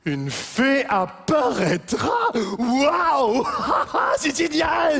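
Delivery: excited. Acted. Thrilled about a fairy.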